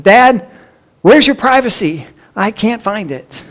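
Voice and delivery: lightly imitated small child, high-pitched at first; little child's voice. Child answers dad through bathroom door, little voice. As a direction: innocent child's question, slowing and softening at the end. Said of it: "the little voice came back".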